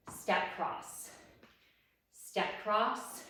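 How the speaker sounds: softly whispered as she steps; breathy whisper. Shown as a demonstration. Instructor demoing the step cross, whispered. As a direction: whisper the cue under your breath.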